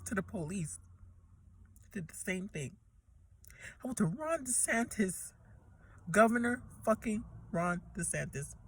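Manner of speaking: spent, barely pushing the words out; soft, exhausted murmur after the anger; quiet, drained. Real, not acted. Drained after rant, quiet recounting.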